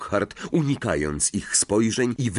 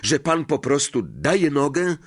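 incredulous; 7 semitones higher than usual. A narrator's reading. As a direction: ask as if unable to believe it. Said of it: "zapytał z niedowierzaniem Harry".

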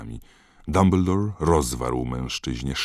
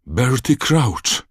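slow, much higher and louder cry of disbelief; shocked shout; 10 semitones higher, 8 dB louder, much slower than usual. A narrator's reading. Snape stunned at the door, shocked shout. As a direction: shout the name as if seeing a ghost.

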